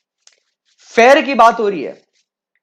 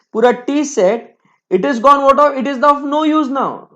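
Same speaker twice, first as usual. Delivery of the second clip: angry mom. Retold or imitated. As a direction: scold like an upset mother. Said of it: "mummy बोलती है". (ऊँची, ज़ोरदार आवाज़ में नाराज़ मम्मी की नकल)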